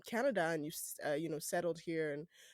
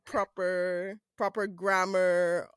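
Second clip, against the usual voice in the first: white voice; 9 dB louder, much slower than usual. Shown as a demonstration. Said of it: "The white voice".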